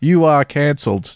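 mock-sarcastic teenager voice, jabbing. Mocking how teenagers online declared people cancelled, mock-sarcastic teenager. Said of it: "people would sarcastically say".

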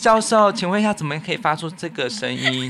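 dutiful, earnest, eager tone. Retelling how broadcast students ask a professor: imitating earnest students. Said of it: "就是很认真的那种".

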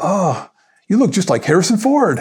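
put-on older Irish brogue. Retelling what an older gate agent at the airport said, in an irish brogue. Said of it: "this Irish brogue".

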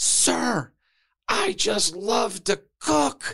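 very high, mild, scream-style yell. Recounting how someone ran up and screamed in their face: imitating someone screaming. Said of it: "he's just screaming at the top of his lungs".

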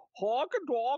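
very high, failed attempt at Russian accent. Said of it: "he tried to do the accent".

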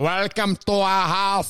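put-on robotic voice. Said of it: "And we're both doing it".

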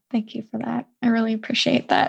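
teary, choked-up, on the edge of tears. Thanking the other speaker for their comforting words, teary. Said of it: "I'm getting teary with you".

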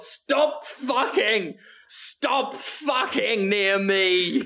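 mock, half-hearted, mild yelled scolding. Imagining someone walking through mass with a lead pipe: mock yelling. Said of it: "you just yell at everyone".

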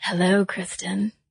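put-on breathy voice. Showing how a silly voice can make listeners think of her: breathy Marilyn Monroe voice. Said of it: "like Marilyn Monroe or Kim Kardashian with those breathy voices".

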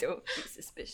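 very low whisper, muttered under the breath. Voicing a character walking onto the Zeppelin: whispering very low to himself. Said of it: "Whispering very low to himself".

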